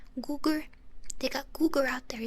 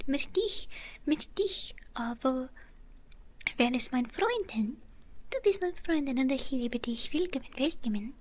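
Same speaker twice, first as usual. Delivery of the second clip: put-on German phrases, English accent. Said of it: "That accent is serious".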